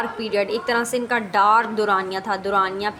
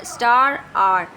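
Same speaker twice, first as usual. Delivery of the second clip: Star and are said loudly to mark the rhyme; rhyme endings stressed; 5 dB louder than usual. Shown as a demonstration. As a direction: punch both ending words. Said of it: "sound similar हो रहे हैं एंड में".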